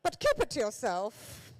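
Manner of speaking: shrieked very high "Yes", then dropped to an aside; loud mock-royal outburst falling to a confidence; the Queen. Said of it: "if she'd have gone".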